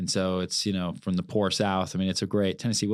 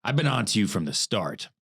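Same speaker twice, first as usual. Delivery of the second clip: reading Stanley's line. Retold or imitated. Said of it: "and Stanley says".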